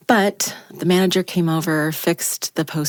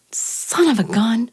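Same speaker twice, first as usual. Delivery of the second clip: muttered curse; 7 semitones higher, slower than usual. Retold or imitated. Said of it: "And I was like".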